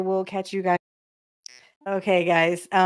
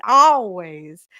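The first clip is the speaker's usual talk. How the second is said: put-on louder, stretched Minnesota-accent always; a fond Minnesota accent mimic; 2 semitones lower, 6 dB louder than usual. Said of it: "It's that hot Minnesota accent".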